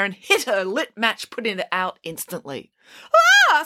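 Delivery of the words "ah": short acted girlish scream; startled scream. A narrator's reading. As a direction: cry out as if suddenly doused. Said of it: "screamed the normal-sized match girl".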